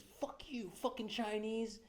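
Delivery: high, slow put-on old man's voice; old guy's slur. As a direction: imitate the neighbour's parting insult. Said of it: "And he says".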